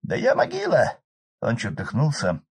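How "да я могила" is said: high loud rough village man; hoarse peasant shout. Acted. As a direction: bellow over the roaring fire. Arkady exclaiming.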